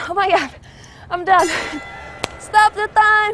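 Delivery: loud, high, breathless relief; relieved exclamation. Real, not acted. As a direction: burst out at the finish. Finishing an exhausting workout.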